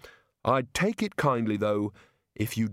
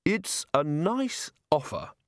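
hesitant; 5 semitones higher, slower than usual. Acted. Rincewind hesitantly declines Bill's offer.

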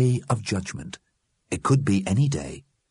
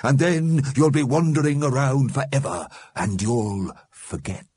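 warning; 9 semitones higher, 4 dB louder than usual. A narrator's reading. Mister Grimm warns the departing dead, foreboding. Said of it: "warned Mister Grimm".

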